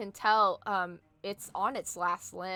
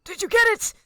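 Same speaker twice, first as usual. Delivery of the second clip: high, loud, bluster like a dwarf itching to fight; pumped-up dwarf yelling from behind a wall; 7 semitones higher, 9 dB louder than usual. Acted. Dwarf shouting to the party, loud and high. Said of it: "and he's like".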